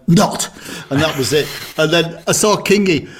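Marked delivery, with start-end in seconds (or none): 0.1-0.5 put-on teen sneer. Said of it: "sticks her head on the door and went".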